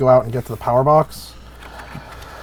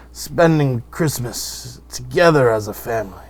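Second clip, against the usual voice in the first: lightly voiced old uncle, slow toast; slow, formal toast by an old uncle; a hint of an old uncle raising a glass; Uncle Douglas toast; 2 semitones higher than usual. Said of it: "and he says".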